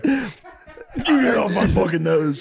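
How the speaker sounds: high, slow, laughing mock whine. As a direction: stretch every word, teasing. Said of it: "You're like".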